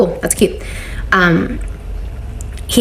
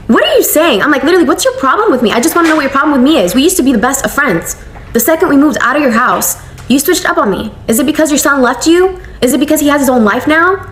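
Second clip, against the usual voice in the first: retold heated argument; 5 semitones higher than usual. Confronting the mother-in-law in the backyard, heated and higher. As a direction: press her with rising frustration.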